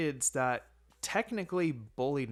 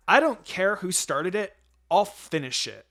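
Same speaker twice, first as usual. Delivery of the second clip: louder, firm warning; irritated threat; 4 semitones higher, 7 dB louder than usual. A narrator's reading. Sister warning two brawling boys, firm angry threat. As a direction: threaten them with a fist ready.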